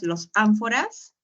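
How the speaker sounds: "los ánforas" asked with a rising, testing tune; doubtful wrong guess. Shown as a demonstration. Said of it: "No, tú dirás". (pregunta dudosa con tono ascendente)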